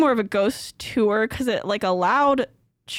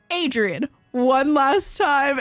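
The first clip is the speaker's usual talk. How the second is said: slow eerie ghost; 2 semitones higher, slower than usual. Retold or imitated. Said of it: "Voice comes through".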